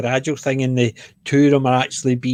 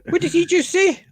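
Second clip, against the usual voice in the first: mock confusion. Mock puzzled reaction to mumbling.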